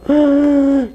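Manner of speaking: high, drawn-out gasp; sharp gasp. Real, not acted. Teacher reacting mid-solution, sudden high gasp. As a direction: suck in a loud, high gasp.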